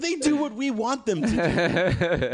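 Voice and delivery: slow, drawn-out, self-important voice with a laugh in it; lightly voiced grandiose host, hammed up; mock pompous podcaster. Joking at his co-host, a mock podcaster grandly slow. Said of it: "you're good with this stuff".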